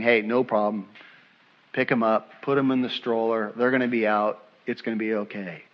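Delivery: low, soft, easygoing father; calm reassurance. Retold or imitated. Dad with tearful kids heading to the car, calm reassurance. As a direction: soothe them quietly and keep it low.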